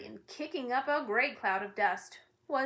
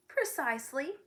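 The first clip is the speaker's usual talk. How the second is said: shouted; 4 semitones higher than usual. Acted. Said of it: "shouted the dog".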